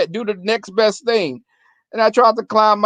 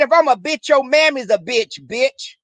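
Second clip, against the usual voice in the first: heated comeback; 6 semitones higher than usual. Retold or imitated. Retorting to her boyfriend.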